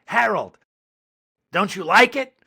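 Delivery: high-pitched imitation of a pleading mom; mother's voice. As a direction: mimic a Boston mother coaxing her son. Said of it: "before his mom said".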